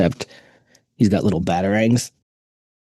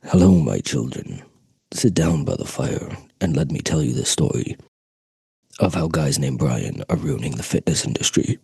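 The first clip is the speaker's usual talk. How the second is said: lightly deeper, mock grandfatherly storyteller; old storyteller by the fire; 4 semitones lower than usual. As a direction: tell it like a fireside elder, hammed-up. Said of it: "if I did a whole podcast in this voice".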